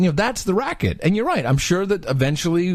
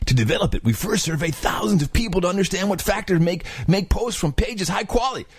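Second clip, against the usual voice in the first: surfer voice; 4 semitones higher than usual. Shown as a demonstration. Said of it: "Oh, yeah, that's it".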